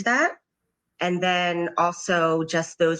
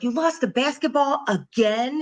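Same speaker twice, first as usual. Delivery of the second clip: blaming; 7 semitones higher than usual. Retold or imitated. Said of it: "that I sounded so blaming".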